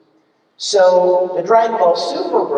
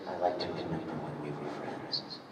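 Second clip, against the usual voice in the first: low, very soft, more natural voice; deep, hushed and shy, unused to talking; Broly; 11 semitones lower, 20 dB quieter than usual. Shown as a demonstration. Shy Broly remembering a lost friend, low and soft. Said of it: "make it a little more natural".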